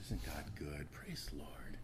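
whispered, dreamy churchy sigh; mock pious whisper. Preacher mocking dreamy ministry life, whispered. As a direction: whisper it like a blissed-out saint.

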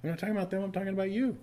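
a hint of God's voice; voice of the Lord. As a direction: speak as the Lord correcting him, lightly voiced. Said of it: "and the Lord said".

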